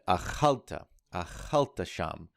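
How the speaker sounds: "achalta" with the accent on its second syllable; "achalta sham", stressing CHAL. Shown as a demonstration. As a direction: lean on the middle syllable, "a-CHAL-ta". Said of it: "the accent is on the second syllable".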